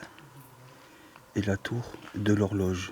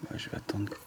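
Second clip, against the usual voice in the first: whispering; 6 dB quieter than usual. Real, not acted. Waiting for Daniel to leave.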